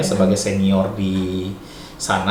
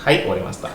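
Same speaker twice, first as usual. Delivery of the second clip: "Hai, owarimashita" falling to a close; "owarimashita" as a finished statement; low falling answer; faster than usual. Shown as a demonstration. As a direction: answer "owarimashita" with the pitch dropping at the end. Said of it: "kamu jawabnya rendah gitu".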